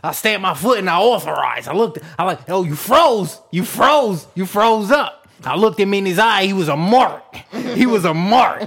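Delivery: mock LA thug with punched, swooping words; thug from LA accent. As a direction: imitate an animated LA thug accent. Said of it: "he got the accent".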